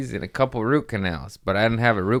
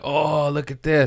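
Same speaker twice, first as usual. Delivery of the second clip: higher-pitched delighted discovery; acted fascinated excitement; 7 semitones higher than usual. Dentist showing patient the pulled infection, acted excitement. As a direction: imitate a dentist marvelling at his find.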